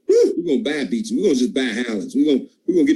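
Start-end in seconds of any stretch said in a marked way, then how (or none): 0.1-1.1 much higher, thrilled second take; excited repeat. Shown as a demonstration. Speaker rallying his sales team, repeating it excitedly. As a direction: lift it right up to fire the team up.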